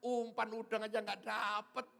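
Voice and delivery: high, loud jeering call; mimicked mocking taunt. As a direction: imitate onlookers ridiculing a hopeless fisherman. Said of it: "Orang di sana ketawa".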